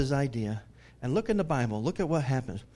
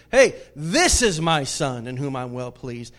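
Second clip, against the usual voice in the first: loud, slow booming proclamation; 6 dB louder than usual. Acted. God cutting into Peter's great idea, booming voice. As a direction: boom it out like a voice from heaven. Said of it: "this booming voice comes out".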